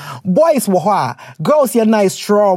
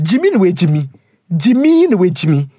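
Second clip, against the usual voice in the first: exasperated Jimmy; exasperated call. Acted.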